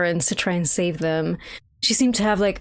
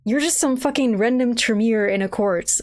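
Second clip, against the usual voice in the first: high-pitched scornful comeback; indignant retort; 4 semitones higher than usual. Acted. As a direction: put her down with incredulous indignation. Acted retort to Sophia's reproach.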